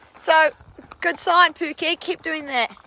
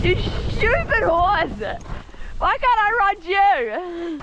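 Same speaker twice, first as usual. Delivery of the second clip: mock scolding; 5 semitones higher, 3 dB louder, much slower than usual. Scolding horse in jest.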